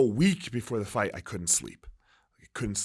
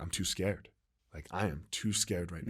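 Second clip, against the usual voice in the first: retold fear; 6 semitones lower, 12 dB quieter than usual. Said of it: "I was like".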